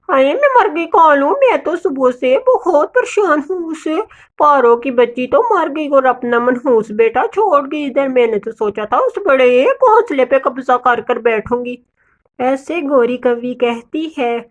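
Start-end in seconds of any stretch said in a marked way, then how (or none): 0.1-11.8 lightly voiced malicious bird, whining at first; hammed-up complaint settling into scheming; scheming grumbler. Bird moans to Kalu about Paro's orphan, peevish and scheming.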